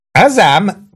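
high-pitched exclamation; shouted cheer. A narrator's reading. Maggio cheers as he fights, high cry. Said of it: "kiáltotta Maggio".

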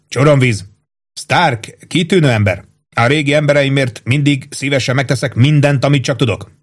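a hint of a hearty captain; captain Holmes voice. Captain praising his old cook, lightly hearty.

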